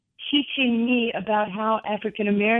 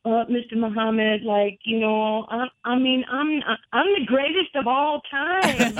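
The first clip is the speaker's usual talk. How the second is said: nervous brag; 3 semitones higher than usual. Retold or imitated. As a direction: blurt it out, a star-struck kid. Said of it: "And I'm like".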